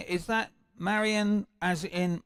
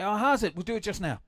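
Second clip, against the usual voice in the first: put-on South African accent; 4 semitones higher, faster than usual. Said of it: "with my English accent".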